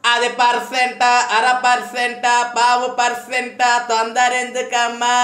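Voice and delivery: slow, sing-song mock of his taunt; mocking sarcasm. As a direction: drag out each percent to ridicule him. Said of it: "ఎటకారం".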